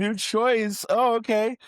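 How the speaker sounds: high French chef voice; chirpy French chef reply. Acted.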